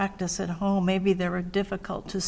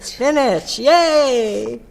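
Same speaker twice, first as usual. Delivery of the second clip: excited praise; 5 semitones higher, 8 dB louder, much slower than usual. Real, not acted. Teacher praising child's reading.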